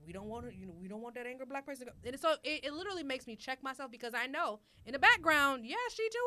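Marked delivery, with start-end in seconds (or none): 0.1-2.0 mocking voice. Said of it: "you're like".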